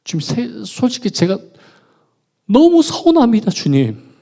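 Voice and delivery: starts hushed, then breaks into a high loud cry; protesting to God. Retold or imitated. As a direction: let the hurt build until it bursts. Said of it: "하나님께 따졌습니다".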